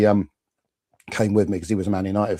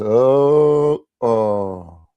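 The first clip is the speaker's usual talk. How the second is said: loud, raised "oh" falling away; real dismayed groan; 3 semitones higher, 7 dB louder than usual. Real, not acted. Fan reacting as Millwall equalise, dismayed groan. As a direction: groan out loud at bad news.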